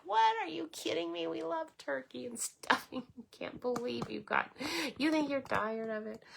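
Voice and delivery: high-pitched mock disbelief, laughing partway through; incredulous family members. Family members hearing she's tired of turkey, incredulous. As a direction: imitate relatives aghast, pitched well up. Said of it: "they are all like".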